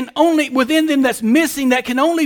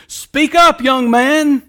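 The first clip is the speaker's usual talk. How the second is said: urging speak up; 2 semitones higher, 4 dB louder, slower than usual. Retold or imitated. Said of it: "we tell young pastors who are learning to preach".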